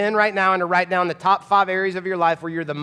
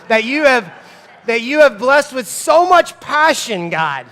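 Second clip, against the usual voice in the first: high, loud, slow strained praise; forced gratitude; 5 semitones higher, 6 dB louder than usual. Pretend. Dad forcing himself to thank God, high and loud. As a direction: push hard to sound thankful. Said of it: "I'm trying here, come on".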